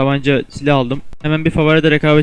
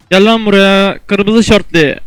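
slow, louder, drawn-out challenge; taunting call-out; 4 semitones higher, 4 dB louder, slower than usual. Real, not acted. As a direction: call the enemy out slowly. Rakibe meydan okuyarak seslenme. (rakibe yavaş ve yüksek sesle meydan okuma)

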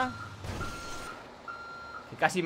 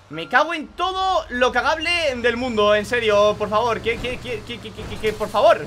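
exasperated rant; slower than usual. Real, not acted. Gamer cursing as the rival succeeds. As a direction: vent at the rival's luck.

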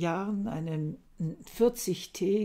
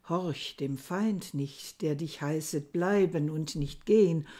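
poem recitation. Acted.

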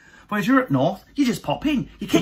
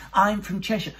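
mock posh wife; 4 semitones higher than usual. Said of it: "to mock her".

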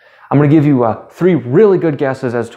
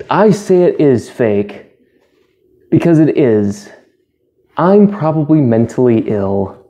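Russian vids again. Acted. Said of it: "I'm Russian vids".

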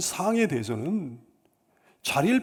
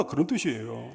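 usual speaking voice

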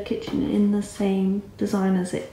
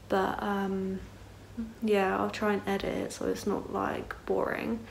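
talking with retainers in; words slurred by a dental retainer; wearing a retainer; 4 dB quieter than usual. Real, not acted. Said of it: "if I sound weird, it's 'cause I've got my retainers in".

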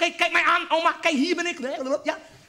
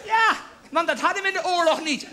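grandma voice; 6 semitones higher than usual. Retold or imitated. Oma about saving wrapping paper.

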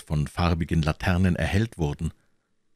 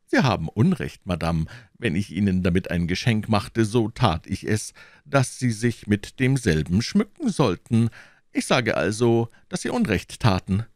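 trembling with anger; 4 semitones higher than usual. Acted. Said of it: "Die Stimme des Königs bebte vor Zorn".

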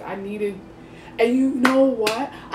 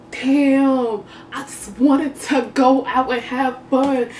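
frustrated outburst; 4 semitones higher, 4 dB louder than usual. Retold or imitated. Frustrated inner voice.

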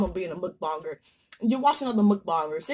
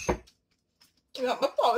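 very slow, stretched out whine; slow mock plea; drawn out plea; much slower than usual. Shown as a demonstration. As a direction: drag each word out, pleading. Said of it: "repeated drawn out".

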